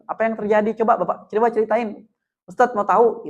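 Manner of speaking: soft, patient invitation to talk; gentle empathy. Shown as a demonstration. Teacher inviting a student to tell his side, gentle. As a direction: coax the story out kindly. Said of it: "kita harus dengan empati".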